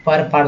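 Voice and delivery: पर short, then पार with long "aa"; two vowel variants. Shown as a demonstration. Teacher shows both sounds of "per", vowel contrast पर, पार. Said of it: "दोनों बोलते हैं".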